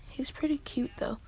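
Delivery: soft whisper, confiding; whispered aside. Acted. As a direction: whisper it like a secret crush. Character confides about a crush.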